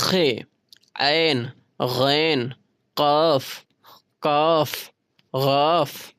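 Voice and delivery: खे, ऐन, गैन said slowly, each from the throat; slow throaty sounding out of काफ and गाफ, with pauses; throat letters demo. Shown as a demonstration. Teacher to students on how to say the throat letters, slow demo. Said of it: "इसको बोलने के लिए आपको हे".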